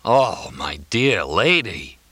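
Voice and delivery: slow, shocked sympathy; moved gasp. A narrator's reading. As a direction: draw it out in tender dismay. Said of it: "He gasped".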